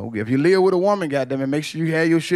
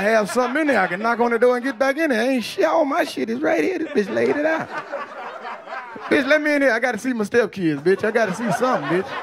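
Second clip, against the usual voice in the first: high whiny begging at the door; pleading thrown-out boyfriend; 6 semitones higher than usual. Retold or imitated. Thrown-out boyfriend begging his ex at the door, high whiny pleading. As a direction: beg her to let you back in, pitched up high. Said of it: "You like".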